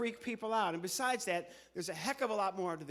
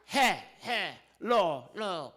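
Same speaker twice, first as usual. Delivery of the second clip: loud syllables; 8 dB louder, slower than usual. Acted. Puppet sounds out hello to ventriloquist.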